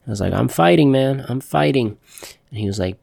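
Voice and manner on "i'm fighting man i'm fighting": raised, urgent insistence, higher pitch; retold I'm fighting. Shot patient insisting to his doctor he's fighting, urgent raised voice. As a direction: insist you're still fighting, pitch pushed up.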